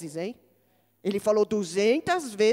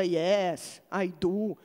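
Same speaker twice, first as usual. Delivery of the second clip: put-on English in a heavy Brazilian accent; lightly mocked Brazilian-accented English; ridiculous English; 5 semitones lower, much slower than usual. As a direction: play up clumsy beginner's English. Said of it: "É um inglês ridículo".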